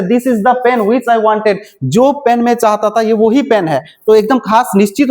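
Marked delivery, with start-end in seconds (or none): 0.0-1.6 very slow, word by word, for students to copy; slow dictation. Shown as a demonstration. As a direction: spell it out slowly for the class. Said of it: "उसके बाद जैसे". (छात्रों के लिए बहुत धीरे, शब्द-शब्द बोलना)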